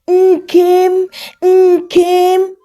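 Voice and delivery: high, loud calling of a name; mother shouting after her son as he leaves; shouting after him. A narrator's reading. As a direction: call him back across the yard. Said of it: "she shouted".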